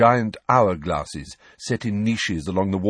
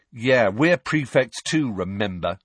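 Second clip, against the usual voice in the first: snarled; 3 semitones higher than usual. Acted. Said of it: "snarled Ron".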